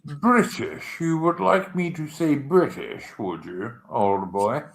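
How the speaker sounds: British with a crisply sounded T in the middle; mock-proper British, hitting the T in "British"; pronounced T. Shown as a demonstration. Streamer obliging a viewer who wants the T in British, mock-proper. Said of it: "he wants me to pronounce a T".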